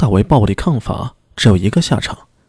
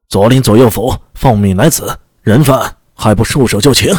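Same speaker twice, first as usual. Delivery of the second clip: loud call. Acted. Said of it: "带队的武士大声喊道".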